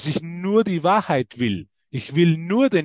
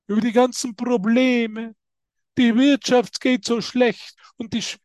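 higher, whiny grumbling about the economy; imitating a grumbler; 5 semitones higher than usual. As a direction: play the complainer, moaning. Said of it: "Kennt ihr so Meckertüten?". (nachgeahmte Meckertüte, höher und jammernd)

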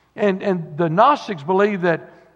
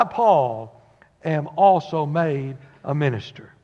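measured formal Bible reading; King James reading voice; scripture reading. Acted. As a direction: read the verses with solemn weight. Reads scripture aloud.

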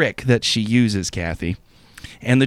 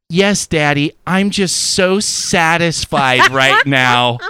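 slow, drawn-out imitation of a lover; mock satisfied; 3 semitones higher, 3 dB louder, slower than usual. Imitating partner placating him in bed, mock satisfied. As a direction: lay on the fake praise, word by word.

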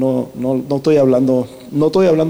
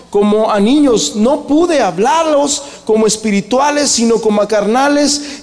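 raised, ringing preacher's voice; preaching at full force; 7 semitones higher than usual. Acted. Pastor preaching to the brothers, raised and fervent. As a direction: preach it out to the whole church.

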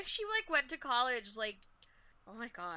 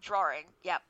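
Massachusetts accent; 6 semitones lower than usual. Shown as a demonstration. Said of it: "that's my Massachusetts accent".

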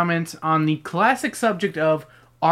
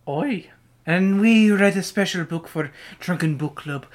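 put-on Irish accent; 3 semitones higher than usual. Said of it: "Green Irish host".

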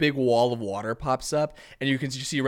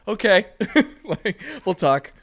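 higher, louder mock line breaking into laughter; imitating Carlisle laughing; 8 semitones higher, 6 dB louder, slower than usual. Retelling the actor's blank reaction, laughing through the imitation. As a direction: play the unimpressed actor but crack up. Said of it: "so he just sort of stares and goes".

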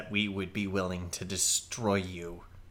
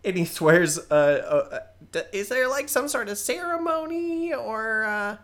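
higher, eager nervous goblin rambling; young goblin sorcerer voice; 12 semitones higher, 5 dB louder than usual. Acted. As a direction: play a keen but unsure goblin kid. Balthazar swears loyalty.

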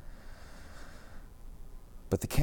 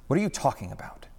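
demanding; 5 semitones higher, faster than usual. Acted. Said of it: "he demanded".

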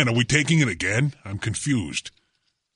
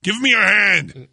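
hanging on for dear life; 2 semitones higher than usual. Pretend. Mock rescue pleading with Roger.

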